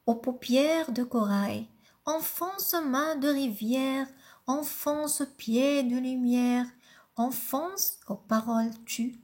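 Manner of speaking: poem reading. Acted. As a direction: recite it gently, pausing after each line. Lit le poème Enfance. (lecture douce et posée d'un poème)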